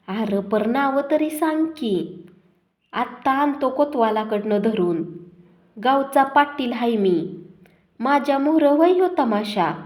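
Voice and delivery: the village chief playing innocent, a touch pompous; sanctimonious. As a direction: hypocritical headman putting on a show of outrage. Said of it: "शहाजोगपणे बोलत होता".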